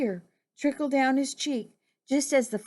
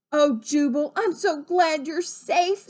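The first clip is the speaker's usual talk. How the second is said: higher voice, slowing on the relief; lightly voiced relieved Gertie; 6 semitones higher than usual. Gertie hugging the rescued frog, mildly gushing relief. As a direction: pitch it up with gladness. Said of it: "said Gertie, hugging him".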